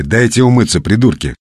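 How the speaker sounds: acted, fairly mild shout; irritated call. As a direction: call out crossly to brawlers. Shouted complaint from the corridor.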